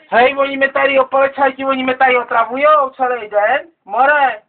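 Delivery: hollering for the cops to come; calling out. Real, not acted. Drunk man calling out to police.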